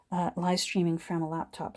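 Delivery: straining while speaking; effort grunt. Real, not acted. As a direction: talk through a hard push. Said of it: "Sorry for grunting and groaning here".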